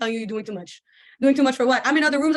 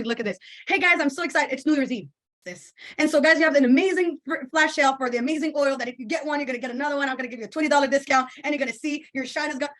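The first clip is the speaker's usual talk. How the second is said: hyped-up story voice; 3 semitones higher than usual. Retold or imitated. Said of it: "And I went on my story".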